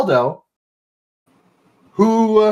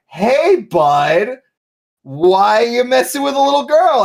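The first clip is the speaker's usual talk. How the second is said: higher-pitched mock challenge; lightly voiced confrontation, pitched up; Adam; 8 semitones higher than usual. Game master voicing Adam confronting them, higher challenging voice. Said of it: "And Adam was like".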